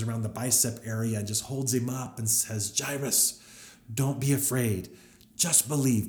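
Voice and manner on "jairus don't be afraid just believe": urgent. Retold or imitated. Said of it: "kind of with this urgency there".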